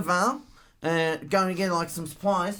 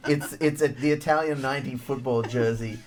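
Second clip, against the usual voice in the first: put-on Australian accent character; 4 semitones lower than usual. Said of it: "This accent is so real".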